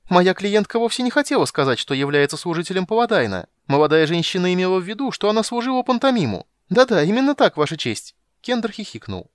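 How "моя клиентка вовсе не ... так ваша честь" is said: high, loud, rapid pleading; mock lawyer kender. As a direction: sell the lie to the judge.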